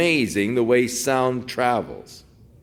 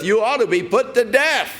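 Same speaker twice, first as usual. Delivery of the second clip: acted scripture line called out high; calling out the verdict; 11 semitones higher than usual. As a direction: shout the sentence across to Abner. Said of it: "Who are you that cries to the king".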